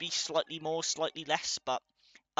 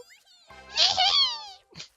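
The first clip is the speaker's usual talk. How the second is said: high squealing laugh; 13 dB louder than usual. Real, not acted. Laughs after off-key singing.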